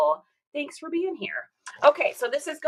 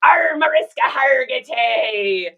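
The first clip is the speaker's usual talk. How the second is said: drawn-out fan exclamation; 6 dB louder, much slower than usual. Real, not acted. Exclaiming over TV actress.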